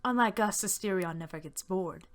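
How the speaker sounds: lightly voiced eager young soldier; a hint of a boyish, lively storyteller; enthusiastic bearded soldier.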